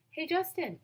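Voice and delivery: calling out. Acted. Emilio calls Justin over from the tetherball court, calling out. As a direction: shout his name across the playground.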